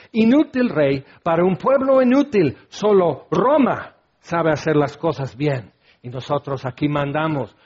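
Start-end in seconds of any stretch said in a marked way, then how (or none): 0.1-5.7 soldier's sneer. Acted. Mocking Roman soldiers' taunt.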